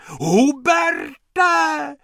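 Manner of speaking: high, loud shriek again; shrieking lady. Acted. Lady keeps shrieking for Hubert by the pool. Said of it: "ječela".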